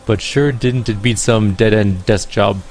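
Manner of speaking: put-on lilting Irish accent for Rainbow; light Irish brogue, chatty. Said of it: "I can't place the accent".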